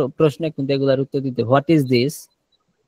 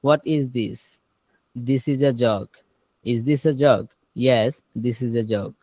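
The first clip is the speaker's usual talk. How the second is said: model answer demo; 3 semitones lower, 3 dB quieter, much slower than usual. Shown as a demonstration. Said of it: "এভাবে ইংলিশে বলবেন".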